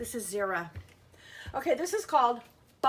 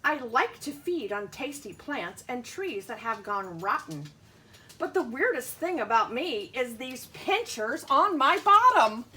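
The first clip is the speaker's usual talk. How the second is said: lightly voiced earwig; 6 dB louder than usual. Teacher reads the earwig's lines to her class, cheeky. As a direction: land the joke on bottom. Bug speaks in book.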